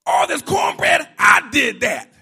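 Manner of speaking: loud, high indignant rant; indignant Martha. Acted. Martha tells the Lord she did all the cooking, loud and indignant. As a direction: list every dish you made, fuming. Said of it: "She said".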